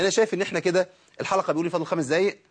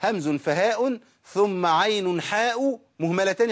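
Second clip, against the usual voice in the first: slow metrical quotation; reciting the verse; 2 semitones higher, much slower than usual. Retold or imitated. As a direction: recite the verse line with drawn vowels. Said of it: "عشان كده الشيخ قال إيه؟". (إلقاء بيت المتن ببطء)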